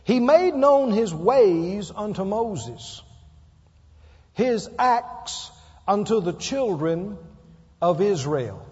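slow, measured reading of the verse; scripture reading. Shown as a demonstration. Preacher reading scripture slowly to his church. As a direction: read the psalm aloud slowly to the congregation. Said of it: "Psalm one oh three seven says".

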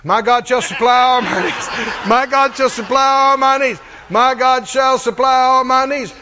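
shouted confession. Retold or imitated. Preacher mocks couch believers by shouting their confession. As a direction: hammer the promise like a lazy believer yelling it. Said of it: "lay on the couch and make confessions".

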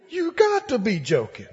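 mock sticker shock, laughing; laughing disbelief. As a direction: chuckle through the complaint. Sticker shock at car lot.

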